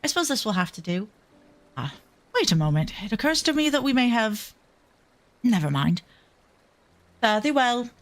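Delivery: British accent attempt. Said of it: "to really have a trigger phrase to get into it".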